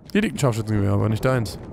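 Scharfschützengewehr with lisped s sounds; mock lisp. Shown as a demonstration. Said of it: "Ich kann auch lispeln wie du".

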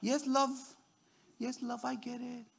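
very soft, placating spouse; chilled out. Acted. Husband soothing his mad wife, chilled out. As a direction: give in softly to calm a partner down. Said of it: "Just chill out and say".

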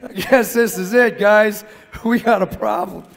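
telling the team there is a problem, mock alarmed; retold alarm. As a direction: sound the alarm but half-joking. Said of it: "I'm like".

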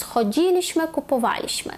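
choDZIliśmy, kupoWAliśmy; third-from-last stress. Shown as a demonstration. Teacher recapping where the stress goes, third from end. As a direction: hit DZI and WA in "Chodziliśmy, kupowaliśmy". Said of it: "так ми ставимо наголос".

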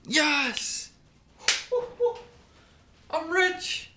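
high, shrieking cries of joy with laughter; shrieking jackpot winner. Real, not acted. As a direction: scream it like you just hit the jackpot. Hits a huge poker pot.

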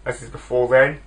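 put-on a light, laughing stab at an Austrian accent; Arnold Schwarzenegger accent. Film fan jokingly imitating the star's Austrian accent. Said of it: "Sorry for that horrible, horrible accent".

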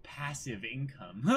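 slow, soft, reverent mock awe; awed whisper-soft. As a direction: breathe it like a dream come true. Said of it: "Nami just looking at it saying".

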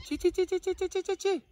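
high singsong call to a chicken. Real, not acted. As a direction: coax the hen back with a high, repeated call. Calling the runaway chicken.

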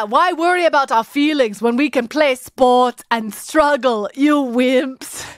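a hint of bad Arnold Schwarzenegger accent; lightly mocked Austrian strongman accent; terrible Schwarzenegger accent. Host parroting Arnold's tough-kids speech, bad Schwarzenegger accent. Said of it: "thinking about my accent. That was terrible".

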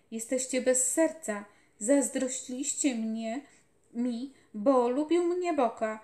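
loud, urgent feverish raving; a sick boy shouting in delirium; feverish delirious boy. A narrator's reading. Dying boy calls out to the general in fever, loud raving.

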